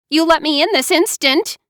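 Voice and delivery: high, commanding, angry; angry demand. A narrator's reading. High angry command. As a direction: Mara Joy demanding her sister open up. Furious sister demands entry.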